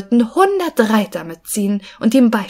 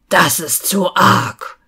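mild slow giant yell; a hammed-down slow outburst of a giant; 3 semitones lower, slower than usual. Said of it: "schrie er". (milder, langsamer Aufschrei des Riesen)

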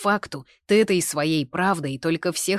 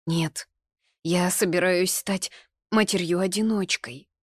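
sobbing lightly; 5 semitones higher, 5 dB louder than usual. A narrator's reading. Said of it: "всхлипывая".

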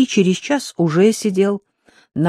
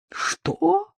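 завопила; 4 dB quieter than usual. Acted. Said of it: "завопила Светлана Фёдоровна".

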